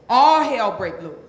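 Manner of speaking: call-and-response shout. Shown as a demonstration. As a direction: belt it out with the audience. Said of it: "go on and say it with me".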